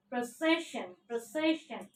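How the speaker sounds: "precision" with the second syllable stressed. Shown as a demonstration. Teacher explaining the stress mark, second-syllable stress in "precision". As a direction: say "precision" as pruh-SE-shun, stress from the S. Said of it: "stress mark over S".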